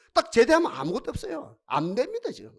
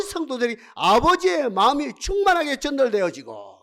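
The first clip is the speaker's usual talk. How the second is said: sustained, swelling sermon refrain; fervent preaching; 2 semitones higher than usual. Real, not acted. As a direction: build the repeated phrases with fervour. Preacher builds a repeated refrain.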